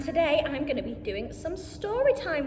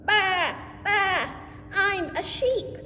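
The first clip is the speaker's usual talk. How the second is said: sheep voice; 2 semitones higher, slower than usual. Acted. Reading farm book, sheep speaks.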